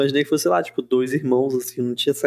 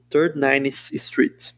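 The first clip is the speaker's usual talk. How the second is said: English pronunciation; much slower than usual. Shown as a demonstration. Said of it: "Eu não sei falar Third Ninth Street".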